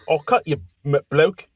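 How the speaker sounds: hammed-up English tough-guy line; mock English accent. Podcaster playing British Paul threatening a rival, mock English accent. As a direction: put on a rough attempt at English. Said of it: "flawless English accent".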